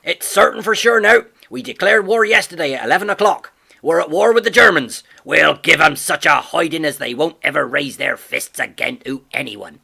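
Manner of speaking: a gruff farmer crowing the news of war; father shouting to his wife across the yard; excited shout. A narrator's reading.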